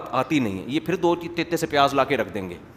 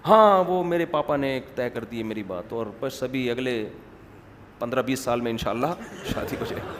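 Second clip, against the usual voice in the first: mock-solemn, subdued and trailing lower; very serious; 4 semitones lower, 4 dB quieter than usual. Girl reporting her engagement to a friend, feigned gravity. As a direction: hide the joy behind seriousness. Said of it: "بڑی سنجیدگی کے ساتھ نا".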